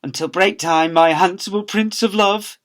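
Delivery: a hint of a swooning reply, slow; drawn-out lovesick reply; lovestruck call back. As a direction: Miss Dovey answering sweetly. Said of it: "she would call back".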